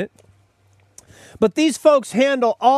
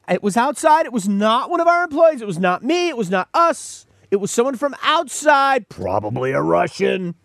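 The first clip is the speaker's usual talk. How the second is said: deflect blame like a shifty spokesman; mock spokesman. Host's mock spokesman insists the hackers were outsiders.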